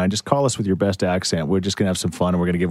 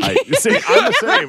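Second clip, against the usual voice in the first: high-pitched, loud stab at Scottish; badly faked Scottish, laughing through it; Scottish accent; 6 dB louder than usual. Shown as a demonstration. Host put on the spot by co-host, attempting a Scottish accent.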